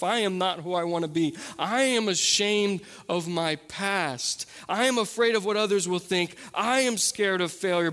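litany of excuses, steadily rising in pitch; escalating sermon list; preaching build. Acted. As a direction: build each "I am" from measured to impassioned.

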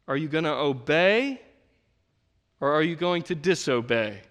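firm parent ultimatum; dad giving son a choice, firm; stern father. Retold or imitated. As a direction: put the choice plainly. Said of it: "and I'm like".

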